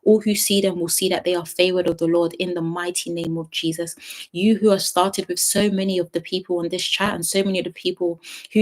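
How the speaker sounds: fervent, steady prayer; firm, rolling intercession. Real, not acted. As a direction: pray over the listeners in an even, flowing stream. Leads a closing prayer.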